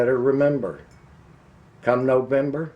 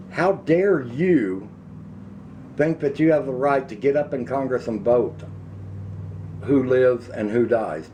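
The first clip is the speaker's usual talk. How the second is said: indignant outrage; 2 semitones higher than usual. Real, not acted. Ranting at Congress over lockdown.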